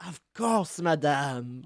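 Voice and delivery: gallant French shopkeeper; courteous reply in a French accent. Acted. Cheese seller answering her thanks, French accent. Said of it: "French accent and all".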